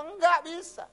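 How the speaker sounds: high, loud emphatic quote; penolakan tegas. Retold or imitated. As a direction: boom out the refusal from a high pitch. Preacher quotes God's emphatic refusal. (penolakan tegas dengan suara tinggi dan lantang)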